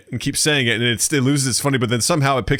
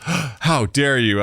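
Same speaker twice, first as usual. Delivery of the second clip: mock offended; much slower than usual. Daughter's mock outrage.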